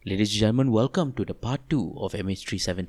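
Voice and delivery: low, subdued radio introduction; solemn cold open, as if close to crying; BFM radio style. Pretend. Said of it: "It was very B F M".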